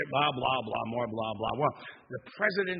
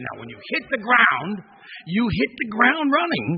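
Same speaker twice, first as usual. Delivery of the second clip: raised, higher voice calling out the jump plan; loud coaching instructions; 5 semitones higher, 9 dB louder than usual. Retold or imitated. Train crew calling instructions to the jumping president, loud and raised. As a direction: call out the instructions over the train noise.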